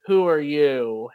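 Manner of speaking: loud slow call across a room; yelling across the room. Retold or imitated. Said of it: "he's, like, yelling across the room".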